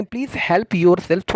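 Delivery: very slow, careful teacher read; slow model phrase. Shown as a demonstration. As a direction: repeat it slowly for students to copy. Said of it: "लेकिन बोलेंगे". (धीमा, साफ़ उच्चारण)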